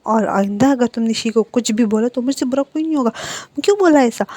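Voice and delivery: angry uncle scolding his niece over her cruel words. Acted. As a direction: tell the child off hard. Uncle scolds girl for hurting Shi.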